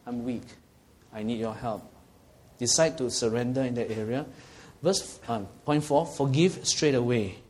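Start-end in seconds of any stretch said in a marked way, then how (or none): 0.1-1.8 hushed, humble prayer of weakness; whisper-soft admission to God; soft plea. Acted. Believer surrendering to God, soft humble plea.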